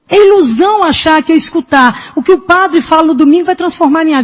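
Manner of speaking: fervent sermon at full force; preaching. Acted. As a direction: preach it hard to the congregation.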